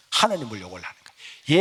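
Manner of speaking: usual speaking voice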